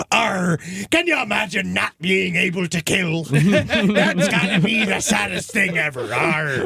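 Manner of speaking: pirate sailor. Retold or imitated. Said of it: "The other sailors being like".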